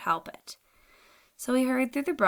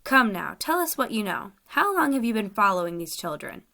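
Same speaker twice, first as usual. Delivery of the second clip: stern, louder opening; severe; 3 dB louder than usual. Acted. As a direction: press him hard, starting loud. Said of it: "spoke severely".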